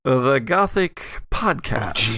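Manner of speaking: slow, announcer-style sign-off; show outro. Acted. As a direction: drag out the show name like a teaser. Closing the episode.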